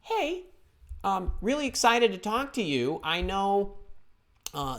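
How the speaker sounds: polite follow-up with an upbeat lift; friendly rewording. Shown as a demonstration. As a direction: sound keen and non-threatening. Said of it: "what do you do instead".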